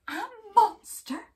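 high, loud frightened squeak; a scared little cry of disbelief; Duck whimpering. Acted. Duck whimpering in fright at the news. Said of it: "she whimpered".

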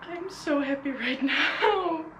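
slow, choked-up happy tears; on the edge of crying for joy; teary with happiness. Real, not acted. Overwhelmed vlogger telling viewers she could cry, teary. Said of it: "I wanna cry".

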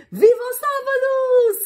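high, loud cheer; high, loud joyful cheer; celebrating. Acted. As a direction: celebrate Saturday together. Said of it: "celebraram as duas".

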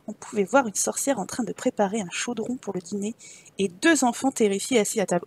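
measured, expressive storyteller; story narration. Acted. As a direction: read it like a dark fairy tale. Reads game story aloud. (narration de conte)

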